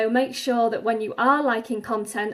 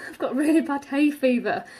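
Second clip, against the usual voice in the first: laughing through the words; 3 semitones higher than usual. Real, not acted. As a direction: speak while laughing. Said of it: "sorry I sound like I'm really out of breath".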